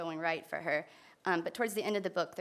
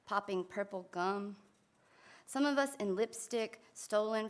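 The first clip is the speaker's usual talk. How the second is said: measured recital, pausing after each phrase; poetry reading; slower than usual. Acted. Poet reads Jocks about her old team, poetry reading. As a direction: let each line of verse land separately.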